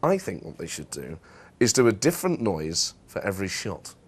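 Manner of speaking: a hint of a know-all toff; smug middle class guy. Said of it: "really smug middle class guy".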